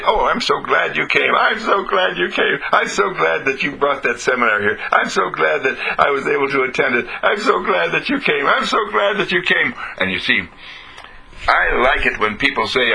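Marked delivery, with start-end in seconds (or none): 0.0-9.7 imitating gushing fans, higher and climbing; sing-song "so glad" gushing; gushing admirers. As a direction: mimic delighted seminar guests. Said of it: "they say".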